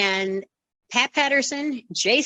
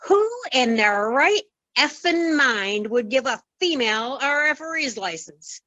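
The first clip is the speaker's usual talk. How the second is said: mock outrage; 3 semitones higher than usual. Wrestling official throwing back a female referee's license, mock outrage. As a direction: imitate an indignant man, drawing the words out.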